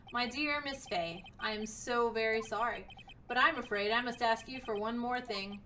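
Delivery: sinister villain. Acted. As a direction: sign off her death courteously. Villain kills Miss Fey.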